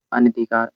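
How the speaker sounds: "अनधिकार" with short vowel after न; correct pronunciation. Shown as a demonstration. Teacher giving students the correct word, "अनधिकार" with short न. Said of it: "अनधिकार होता है".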